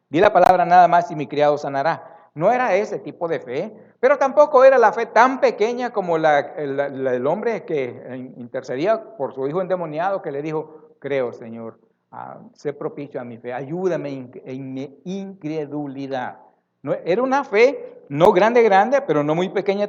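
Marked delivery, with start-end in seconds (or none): 0.1-2.1 firm. Retold or imitated. Centurion's plea repeated louder. 11.0-16.4 quiet plea. Retold or imitated. Father begging Jesus for help.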